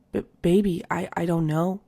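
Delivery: mock stammer, tripping over the first words; stuttering. Fiance caught out, stammering to his partner. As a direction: stammer like you've been caught.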